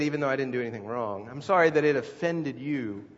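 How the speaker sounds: grudging, sarcastic non-apology; snide sorry. Shown as a demonstration. Pastor mocking a fake apology, sarcastic. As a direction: sneer the apology, blaming them. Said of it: "it sounds more like this".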